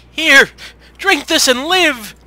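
high, very loud, drawn-out proclamation; theatrical shouted command. Acted. Vampire giving dying girl his blood, grand high shout. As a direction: shout it slowly, like a grand life-giving decree.

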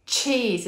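Cheese with a crisp ch at the start; clear ch. Shown as a demonstration. Therapist demonstrates the ch sound, crisp start. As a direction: hit the ch in Cheese. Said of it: "Here's my ch".

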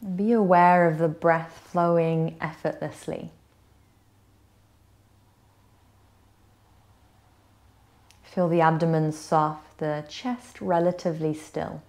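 gentle yoga nidra guidance with long pauses; guided meditation. Acted. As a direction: ease them into rest, unhurried and slightly hushed. Leads a guided relaxation.

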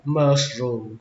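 mushroom dropping in pitch on "room"; falling second syllable. Shown as a demonstration. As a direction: say "mushroom", letting the voice fall after mush. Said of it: "Các bạn nhớ xuống giọng".

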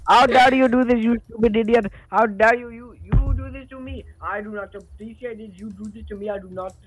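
furious high indignant yelling; shaking with anger. Pretend. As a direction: sputter it out in outrage. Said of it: "that was my, um, impression".

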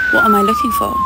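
squeaky high imitation of his question; mock high question. Retelling the date to her co-host, squeaky high. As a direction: pitch it way up as if quoting him.

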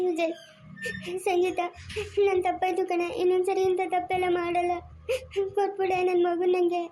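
crying while begging, slowing down; tearful plea. Acted. Mother begging Sangeetha to give back her baby, crying. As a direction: plead through tears for the child.

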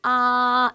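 loud open 아 drawn out, mouth wide; Chinese a. Shown as a demonstration. Teacher models 아 for students to repeat, loud and open. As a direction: model the Chinese vowel 아 clearly and loudly. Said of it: "라고 읽으셔야 됩니다".

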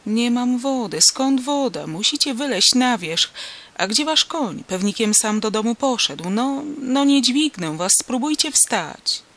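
loud, high, agitated peasant talk; urgent urging. A narrator's reading. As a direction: press an injured man to get up. Farmer urges injured man to climb.

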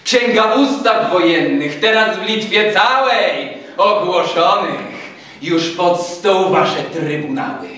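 officer laying down martial law; menacing, blustering major. A narrator's reading. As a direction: pronounce the threats one by one.

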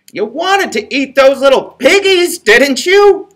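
high cackling witch. A narrator's reading. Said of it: "cackled the witch".

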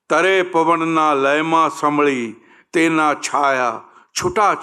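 lilting verse, rising then settling at line ends; poetry reading. Acted. Actor reading a Gujarati poet's song to the audience, expressive poetry reading. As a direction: read the poem aloud with swelling and falling phrases.

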